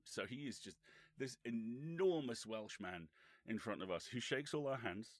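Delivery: ordinary talk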